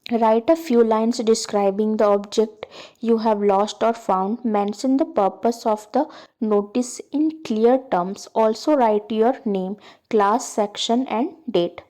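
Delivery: slow, deliberate read-aloud of a task; slow textbook reading. Acted. Teacher reading the textbook task to students, slow and deliberate. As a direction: read each word out slowly for the class.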